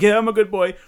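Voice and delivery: put-on scared kid. Host mimics the kid reassuring the vampire, high and eager. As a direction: squeak it out like a frightened boy. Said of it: "And he's like".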